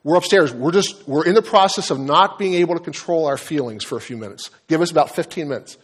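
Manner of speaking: half-hearted holler to someone downstairs; mock yell downstairs. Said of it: "Are you gonna yell down and say".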